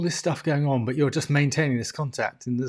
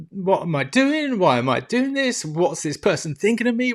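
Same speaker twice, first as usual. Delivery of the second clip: higher, incredulous inner voice; higher-pitched mock despair; retold panicked self-questioning; 5 semitones higher than usual. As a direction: question yourself in mild panic.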